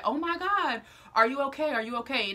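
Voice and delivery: mock concern, starting high then easing down; alarmed neighbour. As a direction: retell a neighbour's alarmed check on someone hurt. Worried neighbour finding her hurt.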